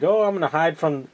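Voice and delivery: a hint of a silly kid, high on the 'oh'; imitating kid. Kid planning to hide from robots, lightly mocked high voice. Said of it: "the kid's, like".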